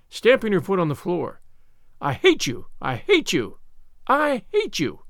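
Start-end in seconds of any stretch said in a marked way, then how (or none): 2.0-5.0 angry repeats, climbing high at the end; hateful cry. A narrator's reading. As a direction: hurl each one out like a stamped foot. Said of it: "each assertion of hatred".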